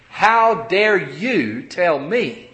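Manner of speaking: slow, drawn-out indignant challenge. Acted. Offended member answering someone who admonishes them, indignant. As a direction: lean on each word as if affronted. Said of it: "That's indignant".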